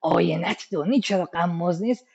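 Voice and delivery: poem line to a friend. Shown as a demonstration. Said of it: "مثلاً به یکی بگیم".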